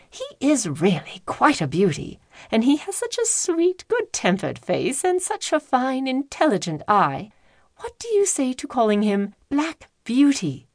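lightly voiced gentle lady; a hint of a pleased mistress; lady's voice. Lady coaxing her husband about the name, lightly voiced.

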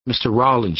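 crying out his name, high and loud; cried out. A narrator's reading. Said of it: "she cried".

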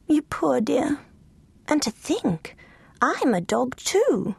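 whispered, tender and slow; sighed whisper. Acted. Lulu Bell on her cushion, whispering to Bones. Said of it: "she sighed".

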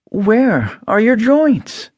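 put-on high, slow anxious girl; anxious question. A narrator's reading. Dorothy with the oil can, anxiously asking the Tin Man. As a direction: ask urgently, worried for him. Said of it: "asked anxiously".

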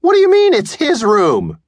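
put-on high, loud incredulous boy; boy shocked by his mother's news; disbelieving boy. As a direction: protest in disbelief. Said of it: "boy disbelieving his mother".

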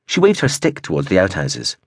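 plain reading voice

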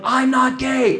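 mock yell. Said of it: "as I'm yelling".

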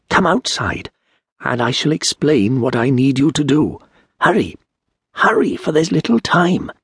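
high, pressing call to hurry; urgent stranger. Acted. Hooded stranger urging Turi to hurry outside, high and pressing. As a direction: urge him out, voice lifted and tense.

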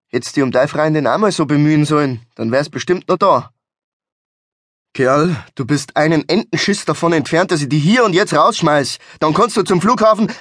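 mounting irritation in Bavarian dialect; a scolding that climbs in pitch toward a threat; angry telling-off. Acted. Pissed-off driver threatens to throw his friend out, irritated scolding.

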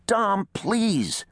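high-pitched begging; desperate plea. A narrator's reading. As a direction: beg him urgently. Second man begs Reese.

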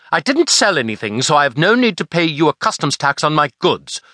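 a touch of sharp indignation; sharp retort. Acted. Girl refusing to pay the customs fine, mildly sharp. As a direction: argue back, mildly sharp. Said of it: "sharp cackle of a raven".

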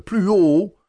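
«plus haut» crié plus haut et plus fort, ton montant à la fin; cri répété. A narrator's reading. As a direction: insiste en criant. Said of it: "cria le maître". (le maître répète son ordre en criant, voix montante)

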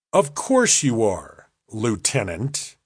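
pause, then land on "Lieutenant" deliberately; pointed pause. A narrator's reading. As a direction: set "Lieutenant" apart after a pause. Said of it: "The doctor paused on that word".

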